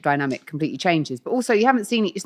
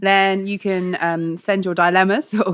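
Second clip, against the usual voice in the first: goofy; much slower than usual. Real, not acted. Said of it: "You sounded, like, saucy goofy then".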